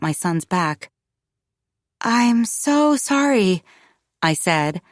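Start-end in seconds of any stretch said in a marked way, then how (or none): 2.0-3.6 higher, drawn-out apology; flustered apology. Acted. Mother apologizing to the doctor's receptionist, flustered and apologetic. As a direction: stretch it out, very apologetic.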